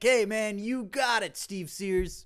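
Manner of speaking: Hulk Hogan. Retold or imitated. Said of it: "him being like".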